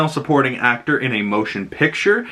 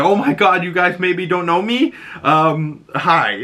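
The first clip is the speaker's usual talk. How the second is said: surprised shy greeting; 7 semitones higher than usual. Retold or imitated. Imitating surprised winner.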